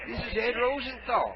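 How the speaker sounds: a hint of a feeble old caller; frail shaky old whisper. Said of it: "Well, I'm old".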